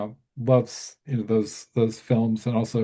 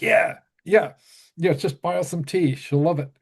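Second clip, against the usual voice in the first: breezy reassuring friend; 4 semitones higher than usual. Retold or imitated. Friend reassures him, voiced.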